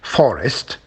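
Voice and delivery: Forest with FOR stressed; FOR-est, as a stress demo; stress on first syllable. Shown as a demonstration. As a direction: lean on the start of Forest. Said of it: "once again at the beginning".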